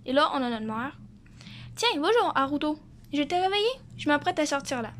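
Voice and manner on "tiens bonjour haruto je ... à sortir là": mom voice. Acted. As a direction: read it as a kind mom. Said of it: "quand on fait des voix de maman, on a l'habitude de faire des voix full aiguës".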